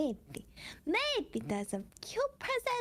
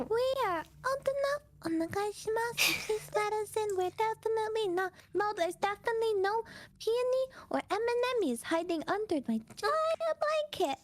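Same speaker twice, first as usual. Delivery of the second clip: squeaky pretend voice; 4 semitones higher than usual.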